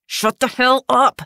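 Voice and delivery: high, loud furious yell; twitchy shout. A narrator's reading. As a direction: scream her silent. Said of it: "the twitchy one shouted".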